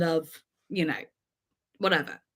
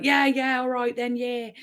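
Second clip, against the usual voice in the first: a hint of drunk Devon twang; lightly voiced Devon accent; slight Devon accent; 3 semitones higher than usual. Shown as a demonstration. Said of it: "Oh, no, that wasn't it".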